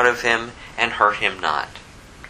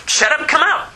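very high, emphatic command; acted exorcising order, high and abrupt; forceful rebuke; 4 dB louder than usual. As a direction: drive the demon out with it. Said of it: "That's what he said".

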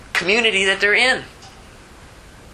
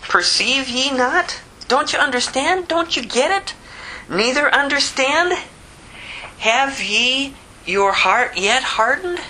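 higher, slow, pleading rebuke; Jesus rebuking; 6 semitones higher than usual. Acted. Jesus rebukes his disciples, higher and slow. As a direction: press them like a teacher who can't believe they missed it. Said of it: "he saith unto them".

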